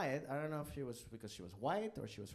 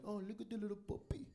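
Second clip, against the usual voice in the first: mock cooing; 8 semitones higher, 6 dB quieter than usual. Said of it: "And I was like".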